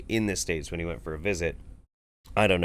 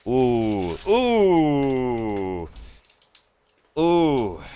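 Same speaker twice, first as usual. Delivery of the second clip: high cooing ooh; 4 semitones higher, 5 dB louder, much slower than usual. Real, not acted. Reacting to raw liver eating.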